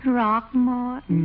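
slow, drawn-out pleading name; coaxing. Acted. Adeline wheedles Throckmorton to take her along, slow coaxing. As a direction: stretch his name out sweetly to win him over.

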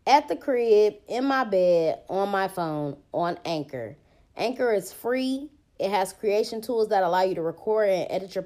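podcast sponsor read in an even, easy voice; easygoing host-read promo. Real, not acted. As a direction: read the host's own ad casually.

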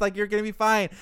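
high-pitched mock reassurance; play-acted apologetic soothing. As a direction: imitate an innocent kid fussing. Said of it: "Hakone's apologizing".

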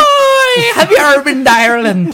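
very high, quick squeaky greeting; hammed-up high-pitched attempt; mock high voice. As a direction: pipe it up in a silly high voice. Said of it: "why don't I try?".

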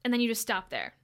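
usual speaking voice

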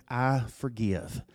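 soft slow I forgive. Acted. Preacher contrasts forgive me and I forgive.

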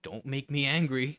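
a hint of a hammed-up threat; mock Hulk warning. Quoting the famous line to his cohost as a mild mock threat. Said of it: "You wouldn't like it when I'm angry".

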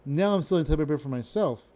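"stealing toilet paper" blurred together; slurred delivery. Shown as a demonstration. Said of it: "it comes out like that".

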